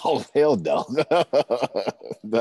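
loud laughing no way; laughing refusal. Real, not acted. Overwhelmed husband refuses to speak.

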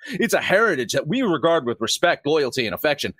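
a touch of mock pious sincerity; mocking sanctimonious tone. Host mocking an official statement, mildly sanctimonious. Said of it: "the same bullshit that people say".

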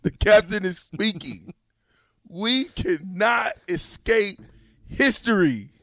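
lightly pompous speech to a crowd; grand orator. Pretend. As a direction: proclaim it like a politician on a platform. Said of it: "speaking out to a crowd of people".

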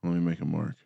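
buzzing line interference; phone interference buzz. Real, not acted. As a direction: voice with electrical hum. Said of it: "there's just a ton of feedback in there".

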